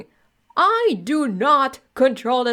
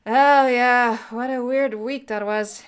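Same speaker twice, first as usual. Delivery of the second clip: higher, odd comic voice; goofy character voice; 4 semitones higher, 4 dB louder than usual. Acted. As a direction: play a dopey customer. Second character answers.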